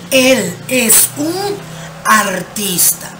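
slow, careful translation for the class. Shown as a demonstration. Teacher translating the model sentence, slow and clear. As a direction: spell out the meaning slowly. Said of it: "¿mi oración cómo quedaría?".

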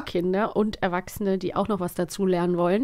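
clear announcement. Acted. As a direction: announce the theme deliberately, as asked. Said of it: "noch mal bitte laut und deutlich ins Mikrofon".

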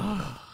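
mock child's huffy sigh; exasperated sigh. Parent imitating a child being taught, exasperated sigh. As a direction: let out a soft, breathy "oh".

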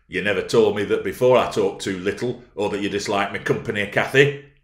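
loud, agitated exclamation; urgent, wounded protest. A narrator's reading. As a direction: burst out hurt, rising on the name. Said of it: "exclaimed Heathcliff, in much agitation".

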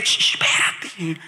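slow hushed whisper. Retold or imitated. Husband hushing his worried wife, whispering slowly. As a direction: hush her gently, barely voiced.

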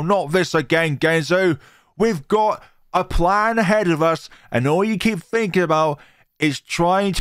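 high, loud, sharp scolding. Acted. Gidget scolding Jerry in a quarrel, loud and high. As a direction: tell him off hard.

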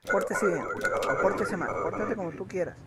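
"Pórtese bien" mucho más fuerte, como orden; ordénaselo fuerte al viajero; orden en voz alta. Acted. (el inspector le ordena fuerte al viajero que se porte bien)

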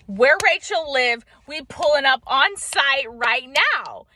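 slow, emphatic mock outrage; riled-up protector. Partner ready to go after Rachel for her, mock riled-up. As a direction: play a partner spoiling for a confrontation, drawn out and punchy.

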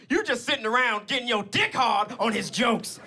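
confident aunt, mock indignation; Aunt Kathy. Aunt mocking her nephew's hater, forceful mock scolding. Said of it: "and this is how she talks".

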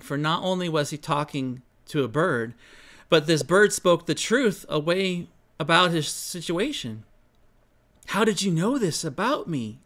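calm storyteller reading aloud; story narration. A narrator's reading. Storyteller reading Mike his personal story, calm narration. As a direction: tell the tale gently, unhurried.

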